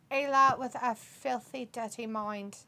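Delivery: put-on a light, joking Liverpool accent; playful dab of British accent. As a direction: read it with a hint of mock Liverpudlian. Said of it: "what kind of accent are you doing".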